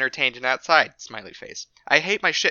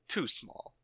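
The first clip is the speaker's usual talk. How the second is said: whispered review; 10 dB quieter than usual. Pretend. Mock customer review read aloud.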